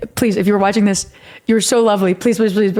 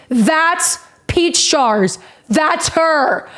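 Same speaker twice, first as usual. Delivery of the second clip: imitating awed fan; 2 semitones higher, much slower than usual. Fan pointing her out to girlfriend.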